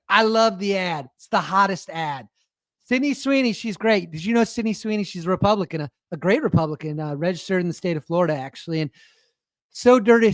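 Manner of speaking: lightly voiced Trump, just a hint; playful half-hearted Trump imitation, riffing; light mock Trump gushing over a star; Trump impression. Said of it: "that's how Trump would talk".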